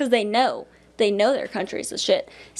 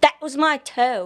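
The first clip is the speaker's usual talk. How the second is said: slow, put-on South African accent; 6 semitones higher than usual. Retelling stepping on a man's toe at Christmas, imitating Wes's South African accent. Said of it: "He was from South Africa, and that's what he sounded like".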